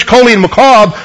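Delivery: coli and macabre said as KOH-lee and mah-KAHB; name the two Hebrew words carefully. Shown as a demonstration. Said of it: "really are translated sickness and pains".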